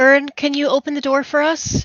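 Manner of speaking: loud, high-pitched shouting. Playing a character who shouts to Byrne: shouting. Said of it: "I'll shout".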